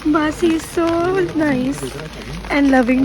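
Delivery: sore throat, hoarse voice. Real, not acted. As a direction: speak with a scratchy sore throat. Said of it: "मेरा गला खराब है इसलिए ऐसे आवाज़ आ रही है".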